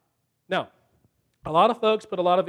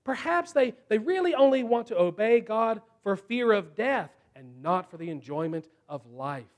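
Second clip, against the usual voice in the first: scheming serpent's thoughts. Retold or imitated. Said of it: "It's like he thinks".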